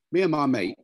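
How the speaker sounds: broad Cockney vowels. Shown as a demonstration. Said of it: "a Cockney from London".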